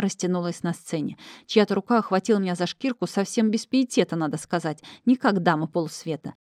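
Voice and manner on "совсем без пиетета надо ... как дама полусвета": usual speaking voice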